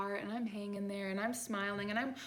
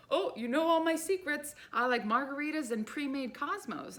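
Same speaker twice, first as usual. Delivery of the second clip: put-on elderly lady; 6 semitones higher, 4 dB louder than usual.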